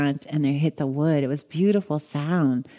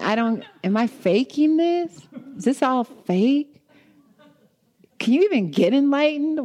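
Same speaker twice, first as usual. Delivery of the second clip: doubting; 8 semitones higher than usual. Retold or imitated. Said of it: "I had this huge doubt".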